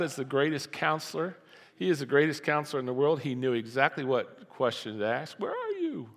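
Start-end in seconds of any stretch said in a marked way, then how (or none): 5.4-6.1 way up high, a gentle calling-out where are you; soaring high pitched call. Acted. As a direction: sing the question high like calling a hiding child. Preacher replays God's question, then laughs.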